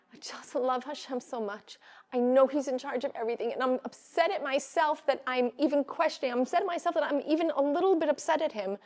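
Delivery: imitating a woman's tearful confession; retold tearful plea. Retelling the divorcee's words to the class, mildly tearful. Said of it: "she starts crying 'cause she says".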